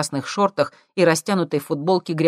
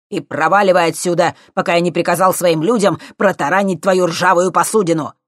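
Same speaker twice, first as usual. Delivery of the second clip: loud threatening professor; angry threat; 3 semitones higher, 7 dB louder than usual. A narrator's reading. Professor threatening to ram the boat, loud angry. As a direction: threaten him hard.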